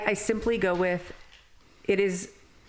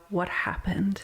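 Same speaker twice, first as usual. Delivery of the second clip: gentle concern; 2 semitones higher, slower than usual. Retold or imitated. Counselor to a client with addiction, gently concerned. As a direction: ask it like you truly want to know. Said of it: "I look at them and go".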